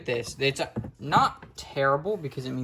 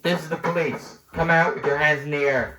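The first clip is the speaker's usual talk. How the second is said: police megaphone voice; through a megaphone; 2 semitones higher than usual. Pretend. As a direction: bark it like a cop on a loudspeaker. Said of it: "It's on".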